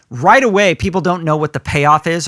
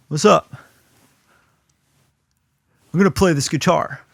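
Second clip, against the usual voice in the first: low-key bored opener. Retold or imitated. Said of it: "Am I just gonna be like".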